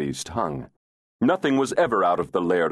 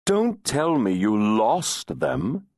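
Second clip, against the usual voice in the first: chiding; 6 semitones higher, slower than usual. Acted. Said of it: "he chided".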